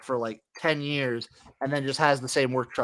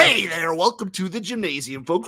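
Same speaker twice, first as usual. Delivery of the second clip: morning zoo host; 3 semitones higher than usual. Acted. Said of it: "morning zoo".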